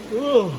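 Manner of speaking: yawning "oh" rising high. Real, not acted. Mechanic yawning mid-explanation to viewers, real yawn. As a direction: let the word stretch into a real yawn. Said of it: "excuse me for yawning on y'all".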